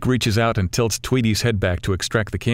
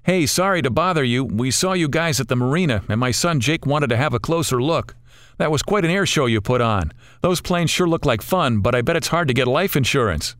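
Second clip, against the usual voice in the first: a hearty dad, higher voice; a father chatting up from his boat; friendly father calling; 5 semitones higher than usual. Acted. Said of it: "The father calls out".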